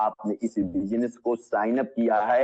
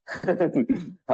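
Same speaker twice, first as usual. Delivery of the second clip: amused chuckle; 4 semitones higher than usual. Real, not acted. Speaker catching the audience out, amused chuckle. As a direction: chuckle to yourself briefly.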